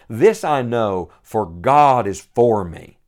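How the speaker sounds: slow, firm declaration with weight on each word; bold. Retold or imitated. Preacher reading the psalmist's words of faith, growing bold. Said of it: "getting more and more bold".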